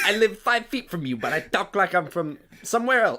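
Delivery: bad Brooklyn Italian accent. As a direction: ham up a fake Brooklyn Italian guy. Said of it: "This is like a bad Brooklyn Italian accent".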